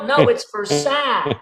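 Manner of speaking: "sale" said as "sigh", drawn out; mock French mispronunciation. Truck seller corrects buyer, "sale" said as "sigh". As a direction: slowly turn "for sale" into "fer SIGH". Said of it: "Don't you mean Versailles".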